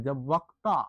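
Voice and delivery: slow dictation. Shown as a demonstration. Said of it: "ऐसे लिख सकते हैं".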